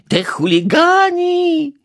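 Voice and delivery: put-on high, loud, slow furious old lady; fuming. A narrator's reading. Neighbour fumes at vandals from the balcony, high shrill fury. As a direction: spit out your rage at the hooligans. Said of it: "piekliła się".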